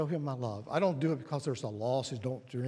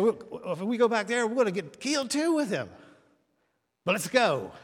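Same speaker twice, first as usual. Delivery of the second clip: Thomas's words, pitched higher and louder, grim resignation; Thomas, reluctant but willing; 8 semitones higher, 7 dB louder than usual. Retold or imitated. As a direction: speak as the doubting disciple who goes anyway. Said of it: "he said".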